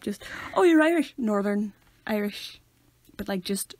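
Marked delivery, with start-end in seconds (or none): 0.5-1.1 high, loud mock excitement; gushing stranger. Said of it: "whiting people up". 1.2-2.6 slow, deadpan correction; drawn-out, stony correction; emotionless deadpan. Shown as a demonstration. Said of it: "no emotion".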